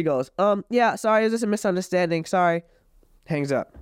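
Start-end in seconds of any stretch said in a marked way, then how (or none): 0.4-2.6 higher sugary imitation of her apology; mock sweet innocence. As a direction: play her sudden fake-nice act. Girlfriend sweetly backing down to police.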